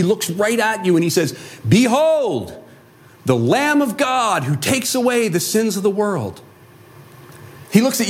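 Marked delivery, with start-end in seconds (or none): 1.7-6.4 lightly voiced prophet. John proclaims Jesus to crowd.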